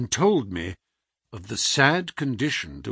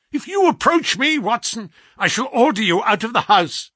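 much higher, louder commanding; imperious threat; 10 semitones higher, 5 dB louder than usual. A narrator's reading. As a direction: threaten with sharp authority. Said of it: "sharp imperiousness".

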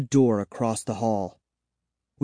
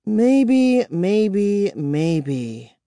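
bitter; 9 semitones higher, much slower than usual. Acted. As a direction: repeat it bitterly, fading away. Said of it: "she repeated bitterly".

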